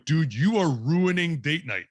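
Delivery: a light, slow, pleading angel; voicing the angel on the shoulder, mildly. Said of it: "Angel's going".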